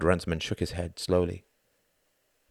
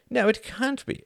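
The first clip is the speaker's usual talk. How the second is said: emphatic agreement. Acted. Runciman answers emphatically.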